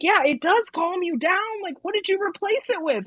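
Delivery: high, pressing imitation of a friend; mock-mad friend. Sober friend demanding what replaced the drinking, high mock exasperation. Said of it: "so mad at me".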